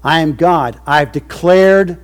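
full-force preaching. Acted. Preacher to his covenant people, full-force preaching. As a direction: lift it up and thunder it.

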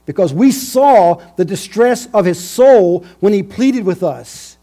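high, loud guilty confession; guilty brothers. Acted. Brothers admitting guilt to one another, loud and high. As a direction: voice rising as the guilt breaks through. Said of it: "they said to one another".

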